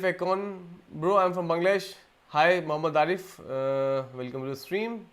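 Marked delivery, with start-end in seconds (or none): none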